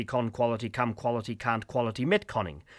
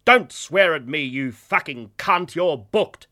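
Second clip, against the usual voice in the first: angry outburst; 6 semitones higher, 11 dB louder, slower than usual. Acted. Ghoul abusing a passenger.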